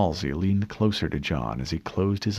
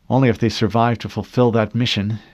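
louder, pressing the point; forceful; 5 dB louder than usual. Acted. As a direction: push back hard against the plan. Halsey argues against proceeding.

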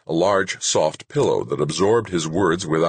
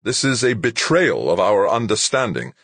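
high, loud harsh accusation; 6 semitones higher, 4 dB louder than usual. A narrator's reading. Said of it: "Rashid said harshly".

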